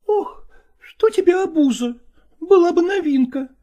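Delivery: high, bitter female reproach with a breathy start; sting him, high and hurt; jealous lover reproaching, high; reproachful woman. Acted. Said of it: "упрекнула его Настина".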